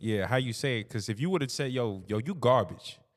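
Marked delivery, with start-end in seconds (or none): 1.7-2.9 very drawn-out, slow, hateful, contemptuous jab. Showing how a harsh delivery sounds: hateful put-down. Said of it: "there's hate there".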